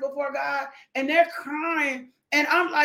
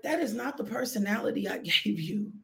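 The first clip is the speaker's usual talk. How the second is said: God interrupting; 4 semitones lower, 6 dB quieter, faster than usual. Acted. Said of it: "And God is like".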